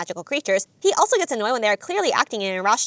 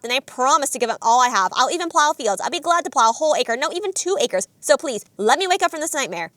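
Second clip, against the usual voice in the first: mock panicked shouting, only moderately raised; Zenitsu. Zenitsu fleeing the spider, retold as mild mock shouting. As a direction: imitate a frantic plea at half strength. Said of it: "before running away shouting".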